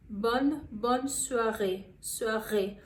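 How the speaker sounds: "bonne soirée" slowly, open bonne, guttural R in soirée; French bonne soirée. Shown as a demonstration. Teacher slowly models bonne soirée, careful French pronunciation. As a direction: stretch it out for learners. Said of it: "você escute bonne soirée".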